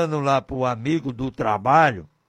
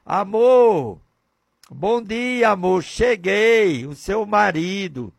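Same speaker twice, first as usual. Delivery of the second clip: a higher sweet greeting for his wife; sweet loving words; 4 semitones higher, 3 dB louder, slower than usual. Acted. Husband greeting his wife with loving words. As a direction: say it gently, a husband being loving. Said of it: "outras palavras diferentes, bonitas".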